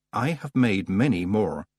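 slow, distant winter spirit; drawn out, otherworldly and calm; slow godlike voice. Acted. Wintersmith speaks.

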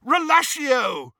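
high, drawn-out yell; yelled spell. A narrator's reading. Harry freeing the chained dragon, high yelled spell. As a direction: yell the incantation, stretching it out. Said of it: "he yelled".

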